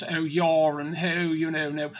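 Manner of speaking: mock posh accent, drawn-out vowels; slow, put-on posh voice; stuck-up posh accent. Mimicking the boyfriend's rich family, mock posh accent. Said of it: "a bit stuck up like".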